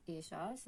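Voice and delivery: "ellas" with a hushing SH, "eshas"; sh variant of ellas. Shown as a demonstration. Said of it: "on dit ellas".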